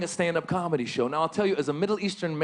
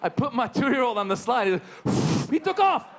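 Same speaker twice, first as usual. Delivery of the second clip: excited alarm; 8 semitones higher than usual. Retold or imitated. Son shoots off the slide.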